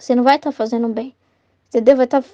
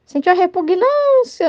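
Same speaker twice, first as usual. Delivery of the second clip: lightly imitated, drawn-out and higher; slow, raised-pitch imitation; Luísa imitation; 4 semitones higher, slower than usual. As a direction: stretch the key word as a fond quote. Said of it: "como é que a Luísa fala?".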